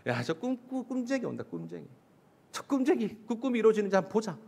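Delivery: retold sneer, kept fairly soft; mock jeering. Brothers jeering at the approaching dreamer, mildly mocking. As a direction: imitate brothers teasing a dreamer under their breath. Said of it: "형들이 놀리려고 쓰는 거야".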